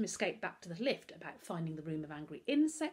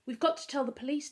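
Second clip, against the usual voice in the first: breathless gasp; 8 semitones higher, 5 dB louder, faster than usual. A narrator's reading. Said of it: "Darcus gasped".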